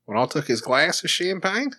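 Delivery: rising Australian lilt; Australian accent. Shown as a demonstration. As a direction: recite the lyric brightly in Australian. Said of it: "We'll do it in Australian".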